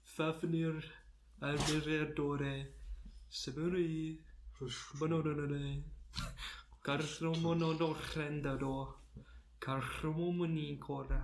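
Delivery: slow, drawn-out fake Old Norse chant; mock Old Norse. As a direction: declaim nonsense Old Norse as a eulogy. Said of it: "whole eulogy in Old Norse".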